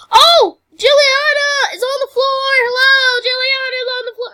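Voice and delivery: loud, high alarmed call; shouting alarm, fast at end. Acted. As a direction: call for help across the room. Calling out alarm.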